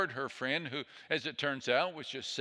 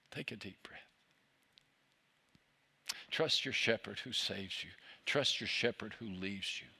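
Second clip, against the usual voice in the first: lower, hushed, calming plea; low, soft and reassuring; soothing; 5 semitones lower, 5 dB quieter than usual. Real, not acted. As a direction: gently settle the listener down, softly. Calming the listeners, urging rest.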